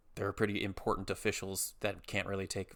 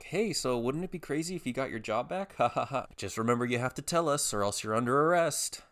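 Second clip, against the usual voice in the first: higher mock-chummy voice with fake laugh; fake-friendly official; 4 semitones higher than usual. Insurer checking on his job, imitated fake-friendly threat. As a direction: joke along, then slide into a mock threat.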